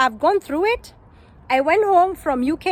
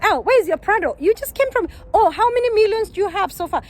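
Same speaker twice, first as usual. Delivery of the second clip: higher, teasing mock question; mocking friend; 5 semitones higher than usual. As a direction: needle her about the missing Prado, lightly sneering. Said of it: "kind of mocking you".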